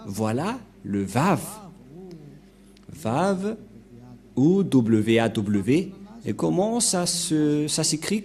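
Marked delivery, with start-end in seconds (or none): 0.8-3.6 Vav said with V sounds; the word Vav shown carefully; Vav pronunciation. Shown as a demonstration. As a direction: demonstrate Vav, then repeat it. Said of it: "C'est comme ça".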